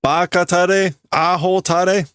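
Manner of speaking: high-pitched name-calling; sharp insults. Acted. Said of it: "getting sharper with their words".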